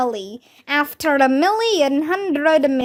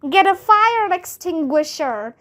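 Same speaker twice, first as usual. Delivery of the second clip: higher urgent yell; 4 semitones higher than usual. Acted. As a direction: call out for help. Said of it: "somebody yelled".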